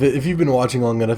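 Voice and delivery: normal talking voice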